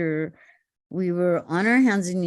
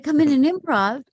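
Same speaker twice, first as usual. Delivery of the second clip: incredulous; 6 semitones higher, 3 dB louder than usual. Retold or imitated. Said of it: "I said".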